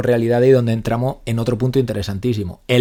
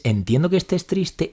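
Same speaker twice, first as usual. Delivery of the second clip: sincere validation; 4 semitones higher, slower than usual. Shown as a demonstration. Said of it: "Validar una emoción es".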